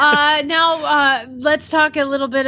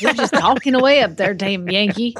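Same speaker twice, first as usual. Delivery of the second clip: lightly imitated grumbling Southern dad; mock complaint in a Southern accent; Southern dad impression. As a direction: play your Southern dad griping. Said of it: "that's how my dad is".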